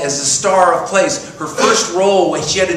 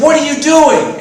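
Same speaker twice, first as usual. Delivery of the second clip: much higher, louder outraged demand; indignant shout; 12 semitones higher, 8 dB louder than usual. Retold or imitated. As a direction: confront him, outraged. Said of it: "I said".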